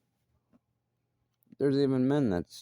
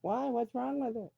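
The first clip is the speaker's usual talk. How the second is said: mock defensive question; 14 semitones higher than usual. Imitating loud show-off's defence.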